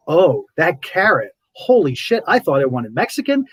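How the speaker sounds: oversell the wonder of a plain carrot; exaggerated excitement. Exaggerated carrot delight to show the shift in joy. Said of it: "I'm exaggerating".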